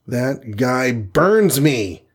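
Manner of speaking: slow, a touch of mock fury; exploding. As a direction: spit it out slowly in anger. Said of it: "exploded Hawkeye".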